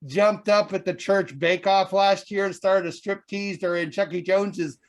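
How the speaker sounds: fiery TV preacher sermon. Acted. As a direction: preach to the congregation, building up. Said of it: "we have the Reverend Moses".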